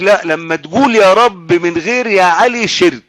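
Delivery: insistent mimicry, pitched a little up; imitated stubborn opponent. Preacher mimicking the obstinate objector, mock-insistent. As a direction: argue it obstinately, as a mocking quote. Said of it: "ده بيعاند بقى".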